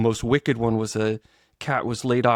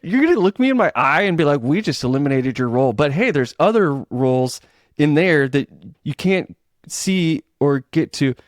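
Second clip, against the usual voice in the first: indignant retort; 3 semitones higher, 3 dB louder than usual. Retold or imitated. Angry retort to boss, retold.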